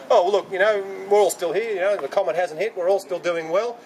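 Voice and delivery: lightly put-on blithe dismissal; mock complacency. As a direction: play the breezily unconcerned sceptic. Mocking what others would have believed.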